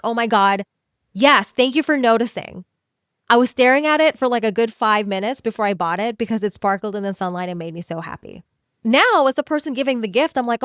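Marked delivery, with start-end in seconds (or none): 0.0-8.4 enthusiastic thanks. Retold or imitated. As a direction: take the compliment with open joy. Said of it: "take it with enthusiasm".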